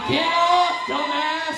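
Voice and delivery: shouting get off at the comic; crowd yelling. Retold or imitated. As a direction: bark it like an angry crowd. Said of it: "fifty fucking people out here going".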